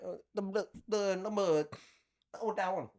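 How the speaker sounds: put-on high-pitched Asian accent parody; mock Asian accent. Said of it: "I was like".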